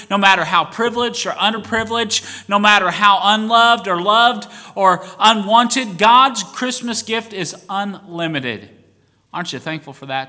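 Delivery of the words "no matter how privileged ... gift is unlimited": louder with each clause; building intensity. Real, not acted. Preacher building his list to the congregation, rising and louder. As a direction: stack them up, rising.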